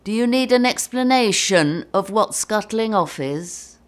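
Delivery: lightly acted condescension; cocky. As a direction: imitate a cocky crewmate talking down. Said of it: "looking all cocky".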